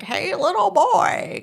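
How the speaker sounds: put-on high, loud, drawn-out old-person voice; pretend old stranger. Mom playing an old stranger luring her kids, creepy old-person voice. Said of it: "I pretend I'm this old person".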